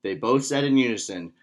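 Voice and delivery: put-on measured, expressive read-aloud for kids; children's story narration. A narrator's reading. Instructor reads a Taekwondo tale to kids, storytime narration.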